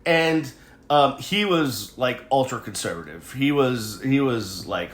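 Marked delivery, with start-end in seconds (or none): 0.1-0.5 imitating a classmate in a much higher Southern accent. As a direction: put on a high-pitched Southern voice, a bit faster. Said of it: "a real high pitched, like, southern voice like this".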